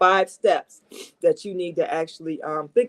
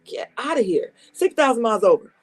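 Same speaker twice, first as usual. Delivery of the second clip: laughing in disbelief, pitch up; amused laugh; 5 semitones higher than usual. Real, not acted. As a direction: chuckle through the absurd mileage. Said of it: "And I'm laughing because".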